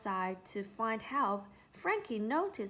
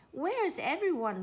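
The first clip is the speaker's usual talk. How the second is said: higher, louder urgent ask; urgent question; 6 semitones higher, 5 dB louder than usual. A narrator's reading. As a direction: ask it anxiously. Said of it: "asked Mister Redwood".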